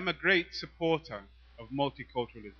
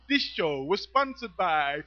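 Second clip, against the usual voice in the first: DJ announcement; slower than usual. Retold or imitated. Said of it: "I loved the way that he would say".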